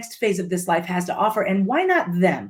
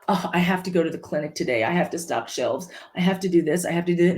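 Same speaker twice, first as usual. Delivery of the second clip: grudging; 3 semitones lower, faster than usual. Shown as a demonstration. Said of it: "No, I get the opportunity".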